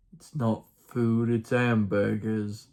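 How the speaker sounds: slow, understated mock British; mock British accent. Fellow elder quoting it down the hall, mild mock British accent. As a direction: lightly imitate a British accent, drawn out. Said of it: "said with a mock British accent".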